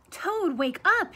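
high, loud, slow wake-up call. Acted. Frog calling at Toad's door, loud and high. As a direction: call him out of bed. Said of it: "he cried".

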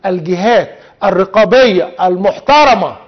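المحترمة set apart with deliberate emphasis; spaced-out phrase, weight landing on المحترمة; stress on المحترمة. Real, not acted. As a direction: underline المحترمة firmly with the voice. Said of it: "وحط تحت كلمة المحترمة عشرين خط".

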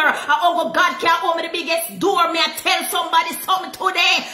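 full-force sermon delivery; fiery preaching. Real, not acted. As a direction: preach it to the congregation.

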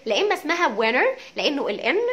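وينر said without any t; t dropped. Shown as a demonstration. Teacher repeating the American وينر. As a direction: drop the t in وينر. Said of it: "احنا قلنا لا تنطق".

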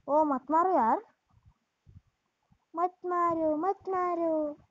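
slow, drawn-out playful plea; half-serious begging, words stretched out; mock pleading. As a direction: beg the enemy off in a long singsong. Pleads with enemies not to shoot.

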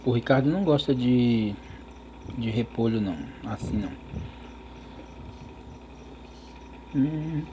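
chewing while talking; mouth full. Real, not acted. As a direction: fork in mouth. Seen 0: fork enters mouth at 5.3, chewing with full cheeks around it.

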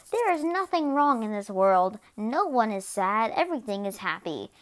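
a hint of a blissfully naive little kid; kindergartner. Kindergartner describing a perfect world, lightly playing naive. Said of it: "in kindergarten, you're just like".

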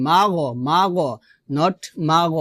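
মাগ as two syllables "ma-go"; open-ended মাগ; wrong mago. Shown as a demonstration. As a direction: let a loose vowel follow the g in মাগ. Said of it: "মাগ বলা যাবে না".

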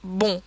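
"bon" with a nasal O, N not sounded; French bon. Shown as a demonstration. Teacher gives an example of O N, nasal French "bon". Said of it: "as in".

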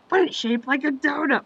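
dim henchman protest. Retold or imitated. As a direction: insist it's a donut, full of dopey conviction. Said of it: "Knuckles like".

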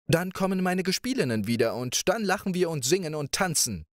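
playful princess. Acted. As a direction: coax him like a carefree young princess. Princess answers.

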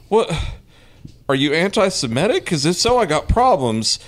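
huffy mock confrontation; indignant rant. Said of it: "I was just like".

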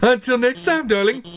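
a diva robot host taunting; showy Mettaton. Acted. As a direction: ham it up for the cameras. Mettaton villain exit.

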